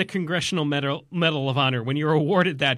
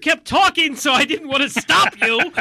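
Roosevelt voice; 6 semitones higher than usual. Pretend. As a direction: play the president apologizing sheepishly. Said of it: "to tell Roosevelt".

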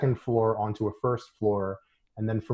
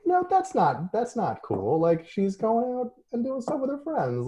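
mock objection; 13 semitones higher than usual. Voicing own objection to character.

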